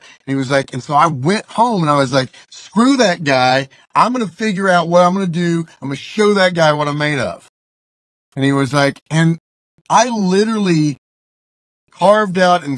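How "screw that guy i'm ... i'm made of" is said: retold defiance. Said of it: "and I was pissed".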